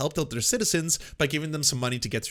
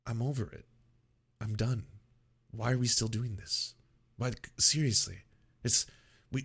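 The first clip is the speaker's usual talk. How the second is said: mock fed-up whine. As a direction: sigh it out like someone bored of the whole thing. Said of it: "people still now are like".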